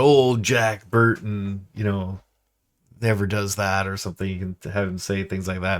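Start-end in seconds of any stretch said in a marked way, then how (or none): 0.0-3.9 arrogant Jack Burton. Retold or imitated. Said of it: "He's always talking about".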